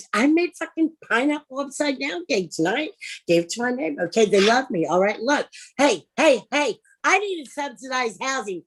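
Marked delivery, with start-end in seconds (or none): none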